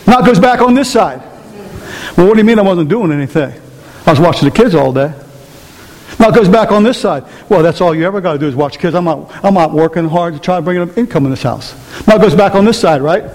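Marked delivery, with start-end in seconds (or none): 2.2-5.1 fast, lower, indignant retort; defensive spouse. Retold or imitated. Wife snapping back that she watched the kids all day, fast. 7.5-11.7 low, fast grumbling jab; resentful husband. Retold or imitated. Husband jabbing back about working hard, low and fast.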